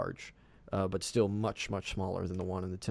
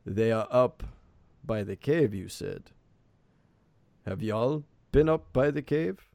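lightly voiced elder, raised and questioning; village elder; 3 semitones higher, 4 dB louder than usual. Elder asks the visitors about the cave, lightly voiced questioning elder. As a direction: ask as a wary elder, pitch lifting at the end. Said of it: "the elder kind of squints".

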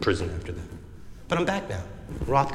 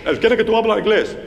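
put-on Spanish accent; 8 semitones higher, 4 dB louder than usual. Defendant dodges in Spanish.

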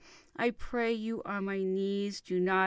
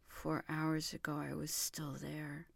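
faint, hushed whisper; whispered regret; anguished whisper; 3 semitones lower, 9 dB quieter than usual. Acted. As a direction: let it fall to a whisper. Anguished lover waiting in vain.

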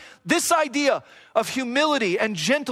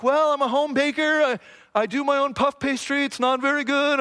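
put-on a light stab at a British accent; attempted British accent; 4 semitones higher than usual. Preacher voicing humble baking show contestants, attempted British accent. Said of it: "I can't do a British accent".

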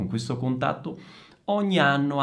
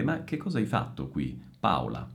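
standard Italian version; 7 semitones lower, 6 dB quieter than usual. Shown as a demonstration. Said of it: "In italiano sarebbe".

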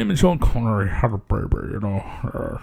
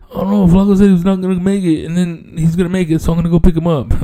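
imitating a friend; 5 semitones higher, faster than usual. Imitating Rizzo's phone excuse.

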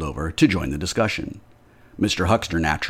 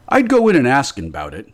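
louder, higher urging; emphatic; 6 semitones higher, 7 dB louder than usual. Acted. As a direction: push him to go in. Blacksmith urging Hall.

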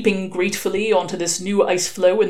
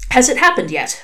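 slightly higher, lightly voiced anxious father; lightly acted eager question; expectant father; 5 semitones higher, 4 dB louder than usual. A narrator's reading. Father-to-be asking the nun at the door, expectant question.

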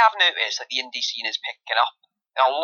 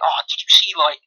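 mock excited gamer; 6 semitones higher than usual. Mocking party chat friends gushing over a match, squealing. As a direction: gush like a fanboy who can't believe it. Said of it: "they'll be like".

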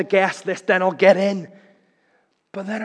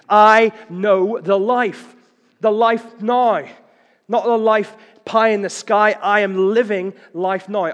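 emphatic preaching; 5 semitones higher, 7 dB louder than usual. Real, not acted. Preacher drives home living now.

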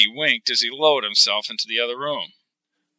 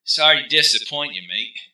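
wry teasing; 3 semitones higher than usual. Acted. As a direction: tease an old friend. Rennie teasing friend.

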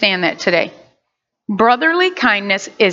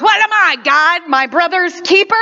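sarcastic retort; 6 semitones higher than usual. Retold or imitated. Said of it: "He goes".

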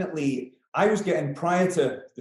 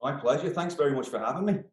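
Manx accent; faster than usual. Real, not acted. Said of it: "good to hear a Manx accent".

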